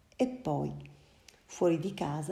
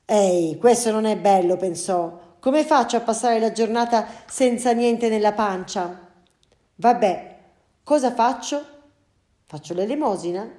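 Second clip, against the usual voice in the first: louder, put-out cat; indignant hungry cat; 3 semitones higher, 7 dB louder than usual. Acted. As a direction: complain like a cat with an empty bowl. Cat finds empty bowl. (gatto indignato con la pancia vuota)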